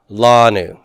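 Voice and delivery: Lanu said carefully, stress on the last syllable; slow Hebrew reading. Shown as a demonstration. Teacher modelling Hebrew word for students, careful pronunciation. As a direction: sound out Lanu for the class. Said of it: "So this is pronounced how?".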